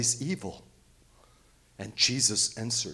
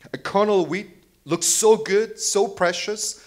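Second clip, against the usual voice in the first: marveling; 9 semitones higher, 8 dB louder than usual. Real, not acted. Preacher marvels at a kernel.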